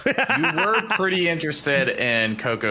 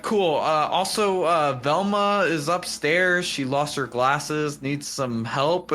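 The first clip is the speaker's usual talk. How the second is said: higher and slowing, sly Daphne; 4 semitones higher, slower than usual. Retold or imitated. Daphne hinting about Velma, sly and slowing. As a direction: drop a hint slowly. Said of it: "she's like".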